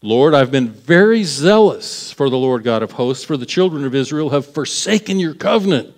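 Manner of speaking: lightly voiced defensive excuse; mild whiny self-justifying plea; excuse-making Elijah. Elijah making excuses to God, mildly defensive. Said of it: "let me come up with this excuse".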